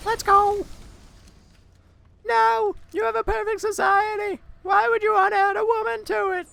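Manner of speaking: squeaky, very high, loud, silly little voice. Player voicing a line while gaming, in a silly little character voice. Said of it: "that little voice that I've just done".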